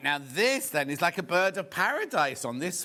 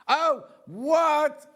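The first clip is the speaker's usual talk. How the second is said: surprised; 12 semitones higher, 6 dB louder than usual. Real, not acted. Sudden stock news.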